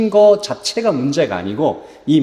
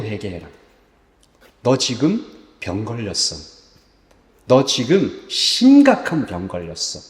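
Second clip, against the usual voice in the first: earnest warning; 3 semitones lower than usual. Acted. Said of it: "예레미야는 ... 이렇게 얘기한 겁니다".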